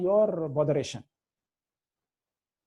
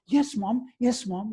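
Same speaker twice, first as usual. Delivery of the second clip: imitated dutiful answer, slightly raised pitch; obedient son; 3 semitones higher, slower than usual. Great swami answering his mother, lightly voiced obedient son. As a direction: answer your mother promptly, like a good child. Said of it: "like this".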